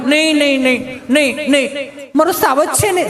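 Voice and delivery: high, doting mummy voice; soothing mother. Acted. Mother comforting her fallen little boy, high-pitched soothing. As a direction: repeat it in a high, fussing coo.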